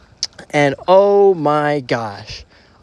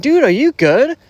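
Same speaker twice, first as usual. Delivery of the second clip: concerned; 9 semitones higher, 4 dB louder than usual. Retold or imitated. Worried check on friend.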